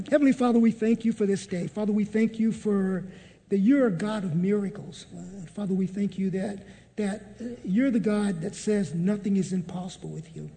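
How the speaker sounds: earnest, measured prayer voice; closing prayer. Acted. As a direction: pray the group out with steady conviction.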